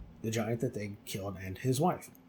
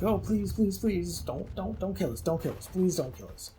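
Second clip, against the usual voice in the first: higher-pitched mock pleading, easing down at the end; hammed-up repeated plea for life; begging; 6 semitones higher than usual. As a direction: imitate someone begging to be spared. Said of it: "they start begging again".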